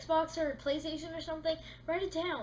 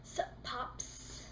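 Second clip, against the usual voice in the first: casual greeting; 7 dB quieter than usual. Retold or imitated. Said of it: "sitting on your bed like".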